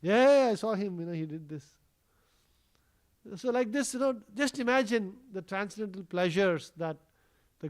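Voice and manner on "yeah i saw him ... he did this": tattling friend. Retold or imitated. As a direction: lightly act a child eagerly ratting out his friend. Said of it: "his friends would also rat him out".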